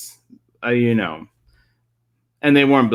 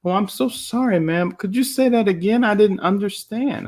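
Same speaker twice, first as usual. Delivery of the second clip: a lightly higher, polite apologetic voice; polite hotel guest; 6 semitones higher than usual. Retold or imitated. A hotel guest in Alabama apologizing to the desk clerk, lightly polite. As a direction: politely ask the clerk to repeat. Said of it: "And I said".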